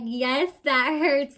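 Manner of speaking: imitating herself pleading through tears; mock crying yes, it hurts; retold crying. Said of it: "And I start crying".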